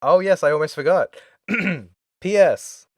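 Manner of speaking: a first try that misses the villain voice; rejected first take. Shown as a demonstration. Host's first try at the postscript, too high. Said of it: "Mm, try that again".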